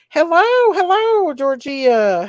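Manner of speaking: high, loud sing-song hello; excited greeting. Real, not acted. Greeting a viewer in chat.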